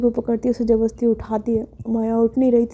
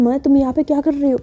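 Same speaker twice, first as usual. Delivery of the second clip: louder, higher, rapid questioning; exasperated scolding; 5 semitones higher, 4 dB louder than usual. Acted. Carer finds Maya on the lawn, scolding. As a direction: scold in a hurried, worked-up rush.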